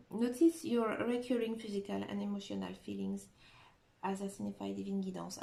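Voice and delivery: reading English in a heavy French accent; English card text read in her self-mocked French accent. Real, not acted. Reading the English angel card to viewers, French-accented English. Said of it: "j'ai un accent anglais pourri".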